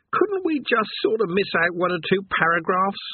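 a tired damned man sighing over his lot; weary chained man. Acted.

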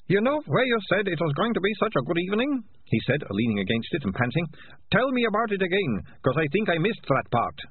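lightly voiced winded rat catcher; panting rat catcher. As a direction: gasp out sarcastic complaints.

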